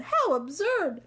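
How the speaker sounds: high-pitched mocking jeer; gleeful, jeering ridicule; taunting yell. A narrator's reading. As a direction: tease him in a squealing crowd voice. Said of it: "they yelled".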